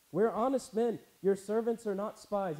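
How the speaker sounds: freaked out. Acted. Accused brothers protesting to the Egyptian ruler, freaked out. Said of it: "they're freaked out".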